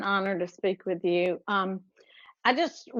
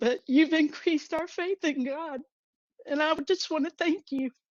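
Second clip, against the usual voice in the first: crying through the words, tearful and very high-pitched; 9 semitones higher than usual. Thanking the person they listened to today, crying. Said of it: "I'm sorry I'm crying".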